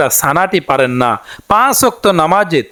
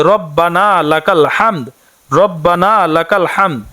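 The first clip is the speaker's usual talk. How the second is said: slow, measured Arabic recitation, each word clear; careful recitation; slower than usual. Shown as a demonstration. Teacher showing women the prayer words, slow careful recitation. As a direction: recite it slowly so learners can copy. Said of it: "সেটি হচ্ছে".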